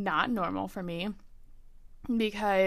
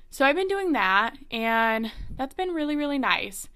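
out of breath; 4 semitones higher than usual. Real, not acted. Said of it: "I feel like I'm gonna be out of breath this entire episode".

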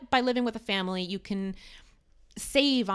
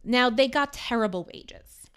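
put-on fading Irish accent; 3 semitones higher than usual. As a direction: let the Irish accent drain out as you go. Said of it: "You really segued out of that accent".

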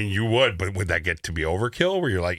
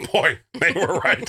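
laughing shout; 8 semitones higher, slower than usual. Real, not acted. Laughing agreement.

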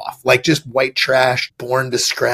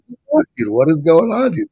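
shocked yelp; 6 semitones higher, 4 dB louder than usual. Retold or imitated. Retelling getting beaten up in fights.

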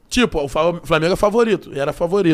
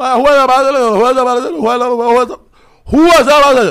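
loud, higher stuck repetition of the street name; louder stammering over the street name; mumbled repeating; 5 semitones higher, 10 dB louder than usual. Retold or imitated. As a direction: act out getting stuck on the words. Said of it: "mas eu embolo".

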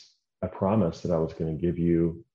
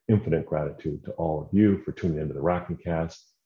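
public radio host. Real, not acted. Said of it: "talking like I'm a public radio announcer".

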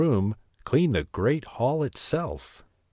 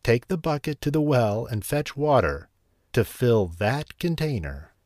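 commanding; 2 semitones higher than usual. Acted. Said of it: "he commanded".

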